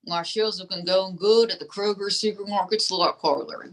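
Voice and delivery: lightly voiced folksy dummy; ventriloquist dummy.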